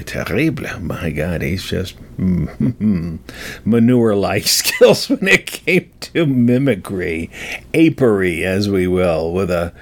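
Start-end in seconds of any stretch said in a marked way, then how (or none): 0.0-0.8 mock-French "Terrible" with a French r; French accent. Host mocking own mimicry, "Terrible" in a French accent. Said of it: "as the French say". 7.7-8.4 "Apery" with a hard push on "Ape"; stress on APE. Real, not acted. Host mocking own mimicry, stressing the "Ape" in "Apery". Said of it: "with a real emphasis on the ape part".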